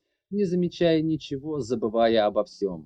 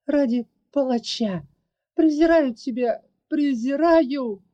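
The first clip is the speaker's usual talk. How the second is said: higher, louder, rising to a crying shout; angry shout; 10 semitones higher, 4 dB louder than usual. Acted. Larry rejecting the man's love, shouting angrily. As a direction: hurl the contempt at him. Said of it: "гневно закричала".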